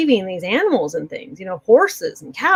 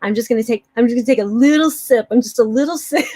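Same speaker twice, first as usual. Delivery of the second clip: imitating grandma's Mexican accent; lightly put-on Mexican accent, amused at the end; 3 semitones higher, 3 dB louder than usual. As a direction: play grandma excusing her sip, Mexican accent. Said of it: "she had this very heavy Mexican accent".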